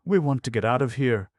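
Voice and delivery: put-on high, fast, loud boy's cry; excited cry. A narrator's reading. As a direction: burst out with delight. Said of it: "cried Carrie".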